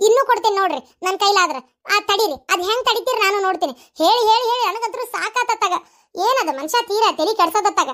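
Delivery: fed-up defiant outburst; exasperated, heated retort; mouthing off loudly. Acted. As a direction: snap and argue back, daring the accuser. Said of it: "ಇಷ್ಟು ಜೋರಾಗಿ, ಇಷ್ಟು ಬಾಯ್ ಮಾಡಿ".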